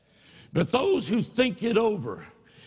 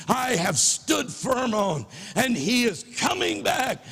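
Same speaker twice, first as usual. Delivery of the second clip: worked up; 4 semitones higher than usual. Real, not acted. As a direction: preach it with rising fervor. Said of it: "excuse me if I get a little worked up".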